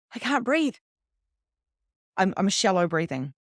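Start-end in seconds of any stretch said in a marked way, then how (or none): 0.1-0.8 mock panic. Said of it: "And I'm like".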